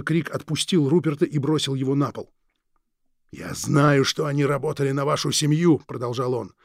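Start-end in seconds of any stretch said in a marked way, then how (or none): 3.3-5.8 menacing villain. Acted. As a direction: savour each word like a veiled threat. Krieg continues.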